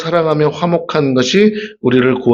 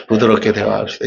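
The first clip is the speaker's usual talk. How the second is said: softer, gentle repeat; 6 semitones lower than usual. Shown as a demonstration. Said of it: "이제부터 부드럽게 대화하세요".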